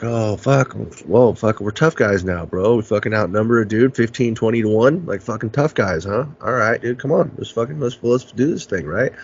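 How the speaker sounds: mock-impressed taunting, retold; talking shit. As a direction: goad a group that outnumbers you, lightly acted. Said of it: "so I keep talking shit".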